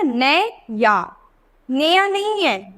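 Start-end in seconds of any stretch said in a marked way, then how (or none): 0.0-1.2 नैया very slowly, ai vowel stretched; slow demonstration. Shown as a demonstration. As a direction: draw out नैया to show the ai. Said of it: "आई की sound आ रही है ना".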